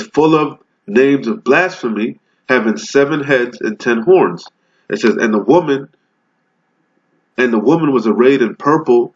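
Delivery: scripture reading. Acted. Reads scripture, slowed.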